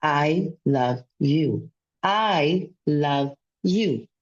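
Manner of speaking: very slow, low, deliberate I love you; slow mirror affirmation. Shown as a demonstration. Speaking to her own reflection each morning, slow and sincere. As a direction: say it slowly to yourself in the mirror. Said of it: "Three times you have to say".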